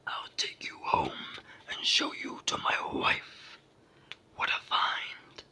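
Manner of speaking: loud, slow giant voice; thundering giant. A narrator's reading. Giant pleased with his find, booming slowly. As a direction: boom it out, savoring each word. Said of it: "in a voice like very near thunder".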